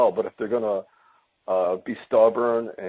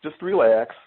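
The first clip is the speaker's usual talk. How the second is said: calming invite; 4 semitones higher, faster than usual. Real, not acted. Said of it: "I'll tell you what I'm gonna do".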